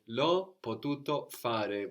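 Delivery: each syllable laid out slowly; slow model answer. Shown as a demonstration. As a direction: say L'ho potuto fare slowly and clearly for the learner. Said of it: "Very good".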